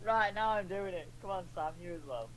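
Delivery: put-on Australian accent. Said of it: "in my Australian accent".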